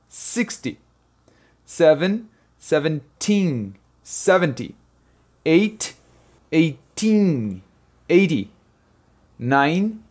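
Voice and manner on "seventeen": put-on seventeen said slowly with the teen drawn out; long teen. Shown as a demonstration. Teacher slowing down to show the long teen. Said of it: "o som é tim, mais longo".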